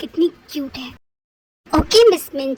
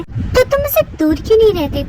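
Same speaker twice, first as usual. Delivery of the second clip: angry; 5 semitones higher, 5 dB louder than usual. Acted. Girl yells at Taeyang.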